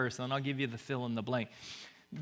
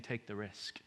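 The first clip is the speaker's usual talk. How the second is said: much softer, hushed urging; God's whisper; 5 semitones lower, 10 dB quieter than usual. Pretend. God whispering to the fearful listener, hushed. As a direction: breathe it low and close. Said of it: "he's saying".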